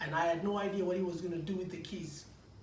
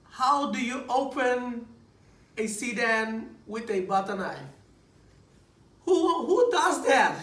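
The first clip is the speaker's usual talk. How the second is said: incredulous laughing; 3 semitones higher, 7 dB louder, slower than usual. Real, not acted. Preacher mocking opening a sedan with butter knife, incredulous. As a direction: ham up the absurdity.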